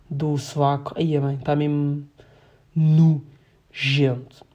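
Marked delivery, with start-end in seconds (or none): 2.8-4.5 drawn-out disgust. Real, not acted. Disgust at his own hygiene.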